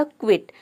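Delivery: क्विट opening on a blended "kw". Shown as a demonstration. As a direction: say क्विट as kwit, K running into W. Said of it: "क्यू और यू का हो जाएगा". (क्विट में "क्व" मिलाकर बोलें)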